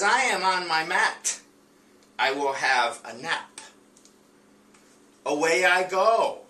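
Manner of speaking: high, slow, bright storybook dog voice; dog's voice. Acted. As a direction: read the dog's lines up high and slow, like a little pup. Teacher voices the dog character.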